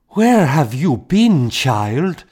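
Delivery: high, loud, half laughing, half sobbing; a mother's relieved cry, tearful; between laughter and sobs. A narrator's reading. Mother calling to her lost child, laughing and sobbing. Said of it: "she asked between laughter and sobs".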